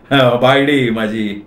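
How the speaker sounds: slow admission trailing into a laugh; sheepish chuckle. Acted. Man explaining his wife's call to colleagues, sheepish chuckle. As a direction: admit it with a sheepish little laugh.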